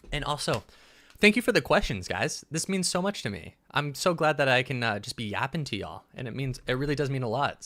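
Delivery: jittery, eager and overexcited; buzzing from strong coffee; wired on coffee. Real, not acted. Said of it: "So I am wired right now".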